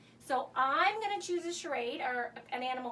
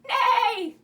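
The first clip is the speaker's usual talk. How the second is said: high, loud playful whinny; horse neigh; 6 semitones higher, 10 dB louder than usual. Pretend. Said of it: "Yeah, it's a horse".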